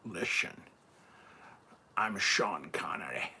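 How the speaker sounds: put-on half-hearted Scottish accent, slow and husky; Sean Connery. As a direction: attempt a breathy, drawn-out Scottish accent. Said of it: "do the Sean Connery accent".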